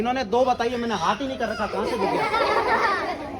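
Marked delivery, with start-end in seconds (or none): 1.7-3.4 mock amazement. Mock amazement at blind guess.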